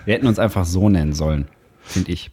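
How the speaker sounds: extremely deep bass voice. Real, not acted. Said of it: "ich hab voll die tiefe Stimme gerade".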